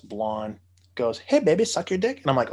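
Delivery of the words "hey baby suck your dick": mock come-on in a higher, harsh put-on voice; worst voice. Imitating the blonde woman's awful come-on voice. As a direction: ham up a sleazy come-on line. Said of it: "Just the worst fucking voice".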